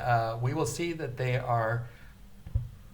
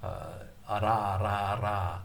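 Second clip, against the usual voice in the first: Spanish r demo; slower than usual. Shown as a demonstration. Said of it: "that ra".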